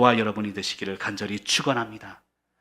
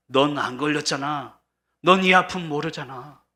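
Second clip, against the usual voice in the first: mildly acted bitter protest, raised and louder; resentful retort; 3 semitones higher, 6 dB louder than usual. Cancer patient inwardly reproaching healthy visitors, mildly resentful.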